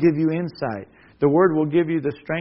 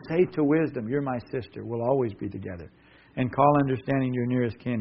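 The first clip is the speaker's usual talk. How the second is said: soft, low, intimate reading of the verse; a quiet father's reassurance; tender hush; 4 semitones lower, 4 dB quieter than usual. Acted. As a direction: draw them in close and gentle. Same verse said softly.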